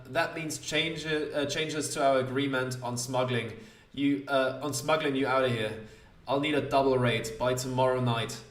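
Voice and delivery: firm bargaining, lightly in character; lightly voiced smuggler. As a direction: lay down terms as a smuggler, lightly acted. Smuggler bargains over his fee.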